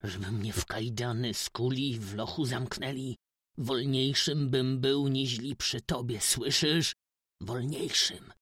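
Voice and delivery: loud bitter outburst; rising loud bitter declaration; said right in her face. A narrator's reading. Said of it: "w samą twarz powiedział".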